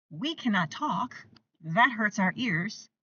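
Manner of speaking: put-on slow, deliberate rule to a child; slow firm rule. Shown as a demonstration. Parent telling a screaming toddler at dinner, slow and firm. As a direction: spell the rule out slowly and calmly. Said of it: "I'm sorry".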